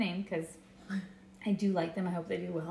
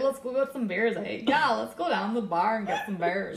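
bad Canadian accent; 2 semitones higher than usual. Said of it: "That's the worst accent I've ever heard".

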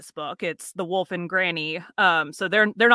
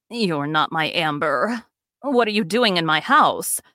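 put-on frightened old woman; 4 semitones lower than usual. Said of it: "She's frightened".

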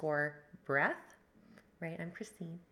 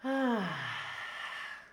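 audible sigh; 4 semitones higher than usual. Shown as a demonstration. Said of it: "so you can hear me breathing".

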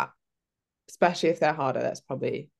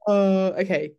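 giggling oh; laughing; 5 semitones higher, 5 dB louder than usual. Real, not acted. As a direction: still laughing.

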